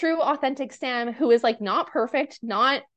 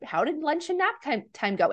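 sweet greeting; 4 semitones higher than usual. Retold or imitated. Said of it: "gives him a hug".

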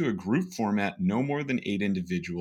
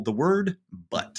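the word but slipped in with a lift; stressed but; 6 semitones higher than usual. Retold or imitated. Coach pointing out a sneaky but, lifted word. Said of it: "slip in just a little".

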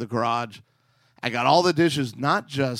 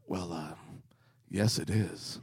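whispering; 6 semitones lower, 7 dB quieter than usual. Retold or imitated. Husband replies in hushed voice.

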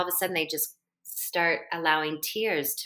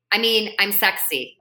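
playful correction; 3 semitones higher, 5 dB louder than usual. Retold or imitated. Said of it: "they have to say".

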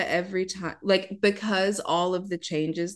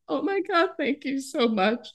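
grateful gush; 9 semitones higher than usual. Retold or imitated. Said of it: "And I'm just like".

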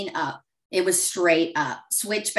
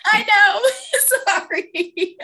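much higher, laughing apology; a teary laugh breaking out; laughing through tears; 14 semitones higher, 5 dB louder, much slower than usual. Real, not acted. Guest laughing through tears after the host says she'll cry too.

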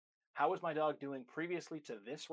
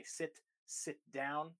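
muddled owner; slower than usual. Retold or imitated. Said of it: "when people say".

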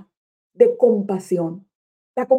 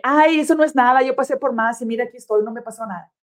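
desdén de padre; faster than usual. Retold or imitated. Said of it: "no con la intención de solamente decirle".

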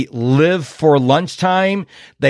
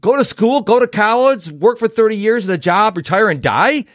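higher, sarcastic repeat of the formula; mocking the life script as a child; scornful mock; 5 semitones higher than usual. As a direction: throw the advice back with scorn. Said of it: "That's stupid".

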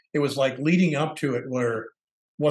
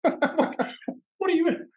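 high, slow put-on voice; imitating his own confused self; mock bewildered; much slower than usual. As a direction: play baffled. His confused reply, retold.

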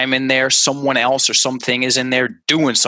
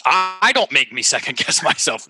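higher and hesitant, stumbling on I; 1 hesitant higher take; 4 semitones higher than usual. Shown as a demonstration. Coach tries the translated sentence in an unsure voice. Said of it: "translated sentence with I".

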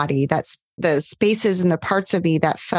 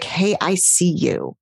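gentle acknowledgement. Shown as a demonstration. Coach showing the caring tone she wants clients to use. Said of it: "this just tone oozing of".

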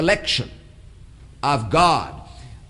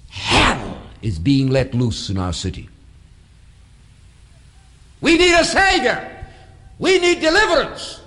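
crying out; 3 semitones higher than usual. Real, not acted. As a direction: preach it out with full force. Preacher crying out for a Savior.

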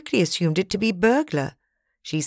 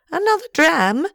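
character voice; 12 semitones higher, 5 dB louder than usual. A narrator's reading. Character offering a drink.

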